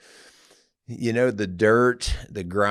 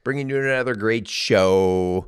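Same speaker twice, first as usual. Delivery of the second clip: higher-pitched, upbeat announcer opening; show host intro; 5 semitones higher, 4 dB louder than usual. Acted. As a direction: open the show like a radio host.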